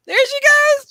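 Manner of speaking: high, loud squeal of delight; delighted cheer. Real, not acted. Owner watches dog take the toy, delighted.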